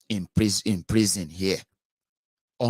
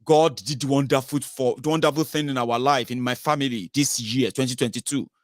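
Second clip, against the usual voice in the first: thanksgiving testimony; 3 semitones higher, 3 dB louder than usual. Retold or imitated. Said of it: "They say".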